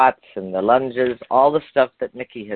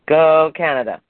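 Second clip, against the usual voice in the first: cheer; 6 semitones higher than usual. Real, not acted. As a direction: shout it out like a hometown fan. Cheering for home country.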